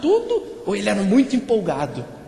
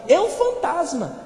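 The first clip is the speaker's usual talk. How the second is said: higher, drawn-out cry of alarm; frightened exclamation; 7 semitones higher, slower than usual. A narrator's reading. Terrified disciples exclaim on seeing Jesus, frightened cry. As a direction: read as a mildly terrified cry. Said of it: "ficaram aterrados e exclamaram".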